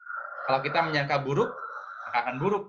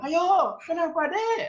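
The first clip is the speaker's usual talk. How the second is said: high, loud mock yell at the child; yelling parent; 5 dB louder than usual. Parent yelling at the child who broke a glass, high and loud. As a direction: yell at the kid like a cross parent.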